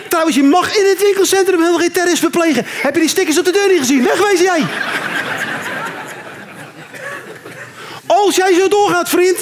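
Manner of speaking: mock indignant warden; bossy scolding. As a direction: shoo him away like a mall guard.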